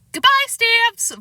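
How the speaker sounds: high, slow calling voice. A narrator's reading. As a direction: call from the doorway. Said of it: "Fudge called".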